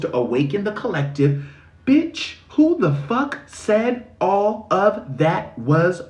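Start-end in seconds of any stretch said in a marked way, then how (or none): 1.9-6.0 high indignant "Bitch" then slow disbelief; incredulous outburst. Real, not acted. Venting to viewers about healer duty, outraged. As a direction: push back in outraged disbelief.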